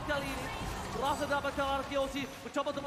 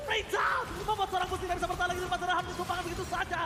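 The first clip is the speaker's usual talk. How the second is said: excited shout; 4 semitones higher, faster than usual. Real, not acted. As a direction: yell the play like a caster. Live cast, big play.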